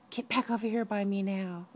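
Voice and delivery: mock stern call to children; retold parental order. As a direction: imitate a mom calling her kids back. Retold mother calling her kids over.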